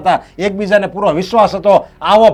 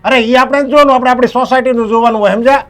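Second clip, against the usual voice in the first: heated lecture; 5 semitones higher, 3 dB louder than usual. Acted. Father scolds son in quarrel.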